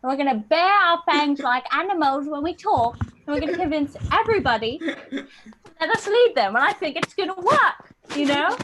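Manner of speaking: hammed-up British meeting leader; rally the room in a mock British accent. British schemer pitching a new accent at a meeting, mock British accent. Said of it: "all the British people together and they were like".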